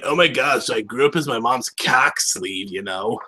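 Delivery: lightly voiced lazy California dude; impersonating Steve. Playing the voice actor as Steve, light California dude impression. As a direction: toss it off like a laid-back surfer. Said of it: "really good impersonation of him".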